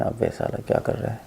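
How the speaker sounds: hushed, annoyed inner grumble; whispered irritation. Retold or imitated. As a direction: mutter it under your breath in annoyance. Irritated passing thought.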